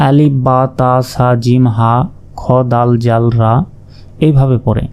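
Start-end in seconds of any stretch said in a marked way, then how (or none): 0.1-3.6 Bengali-style আলিফ, বা, তা, সা said flatly the common wrong way; wrong letter names. Shown as a demonstration. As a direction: read the letters off like Bengali syllables, not Arabic. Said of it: "অনেকেই অশুদ্ধভাবে এইভাবে বলে যে".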